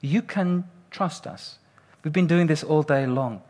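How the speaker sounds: mildly soothing retold reassurance; half-hearted reassurance. Bungee crew to nervous jumper, half-hearted reassurance. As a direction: try a little to reassure, unhurried. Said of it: "semi-tried to reassure me".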